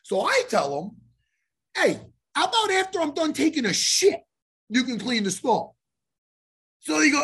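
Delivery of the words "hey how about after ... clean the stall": higher-pitched, mildly irritated comeback; irritated retort. Retold or imitated. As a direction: fire back at the pest outside. Acted angry retort from toilet stall.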